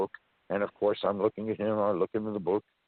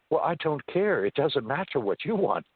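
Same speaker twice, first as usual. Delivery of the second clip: entity's voice; 6 semitones higher than usual. Retold or imitated. Entity voiced in retold story.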